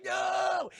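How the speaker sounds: high, loud, drawn-out mock protest; hammed-up horror victim's cry; mock terrified yell. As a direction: wail it high, imitating the victim. Victim forced into the oven.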